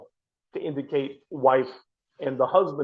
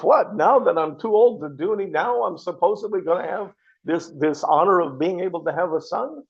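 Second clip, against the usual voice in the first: indignant retelling; 4 semitones higher than usual. Retold or imitated. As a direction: voice Sarah's indignation, bursting out then settling. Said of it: "She's mad at God".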